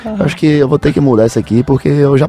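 put-on Northeastern Brazilian accent. Colleague's alter ego in a work meeting, Nordestino accent. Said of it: "alter ego que fala com sotaque nordestino".

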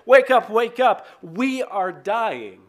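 loud, high mock panic, then drawn out; panicked. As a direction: disciples shaking Jesus awake in terror. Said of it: "It seems like".

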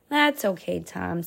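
soft, gentle fatherly comfort; a dad softly reassuring his boy; gently. Acted. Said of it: "said his dad gently".

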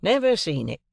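Wemmick voice. A narrator's reading. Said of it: "said Wemmick".

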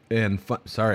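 hiccuping mid-sentence; words broken by hiccups. Real, not acted. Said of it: "I got the hiccups".

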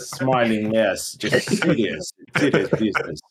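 serious, deliberate Russian accent; strong Russian accent. Shown as a demonstration. Showing friends the professional Russian costume, serious Russian accent. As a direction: put on a Russian accent, all business. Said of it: "really strong accent, talking like this".

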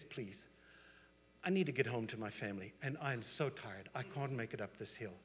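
quiet, weary mock plea; soft pleading. Tired snake begging a hiker to carry it, soft pleading. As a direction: beg softly, voice falling away. Snake begs man for a lift.

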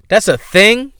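high, rising disbelief on THING; incredulous question. Real, not acted. Host astonished that Instagram apartments exist, incredulous question.

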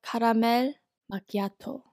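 caramel macchiato in a Korean accent, Kah-rah-mel mah-kee-ah-toh; Caramel macchiato with Korean vowels, flat and even. Shown as a demonstration. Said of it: "How do you say caramel macchiato in, like, a Korean accent".

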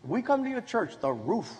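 laughing joke. Retold or imitated. Guys joke about church roof.

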